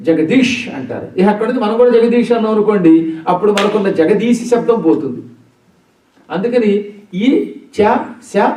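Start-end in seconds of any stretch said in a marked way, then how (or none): 0.1-0.6 జగదీష్ ending on a hushing sh, no final vowel; Hindi speakers' pronunciation. Retold or imitated. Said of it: "వాళ్ళ లాంగ్వేజ్లో convert అయినప్పుడు". 7.2-8.5 ఈ, చ, శ said one at a time; palatal sounds. Shown as a demonstration. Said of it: "అవి తాళవ్యములు".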